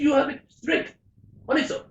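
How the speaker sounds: put-on an amateur's French accent for the barman. Barman apologising to a skier, mock French accent. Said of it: "excuse my accents".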